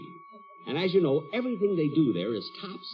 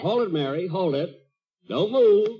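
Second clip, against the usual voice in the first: sudden command; 3 semitones higher, 4 dB louder than usual. Acted. Jack halts Mary under mistletoe.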